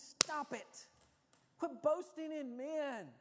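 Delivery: high, forceful scolding; emphatic rebuke. Retold or imitated. Preacher voicing Paul's rebuke to boasting believers, emphatic.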